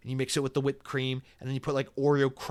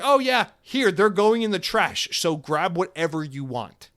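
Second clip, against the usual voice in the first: breezy worker; 4 semitones higher, 5 dB louder, slower than usual. Retold or imitated. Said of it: "she's like".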